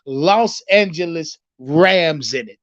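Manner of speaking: low, deliberate quoted question; lightly imitated press question; quoting the reporter. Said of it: "That's how he asked him".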